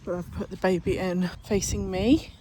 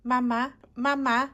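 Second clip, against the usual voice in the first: higher sing-song coaxing; 4 semitones higher, 5 dB louder than usual. Real, not acted. Mother coaxing baby to say dada.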